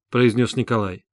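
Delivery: ordinary delivery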